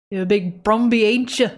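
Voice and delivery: put-on light Australian accent, teasing; half-hearted Australian accent; Australian try. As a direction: have a go at an Australian. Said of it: "best Australian".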